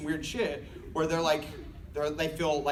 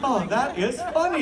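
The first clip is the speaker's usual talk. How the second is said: mock polite amusement; 8 semitones higher than usual. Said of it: "They just say something like".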